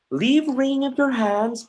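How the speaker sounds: high, loud order to stop; commanding shout. Acted. Hamlet loudly ordering his mother to sit. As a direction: snap the order at her.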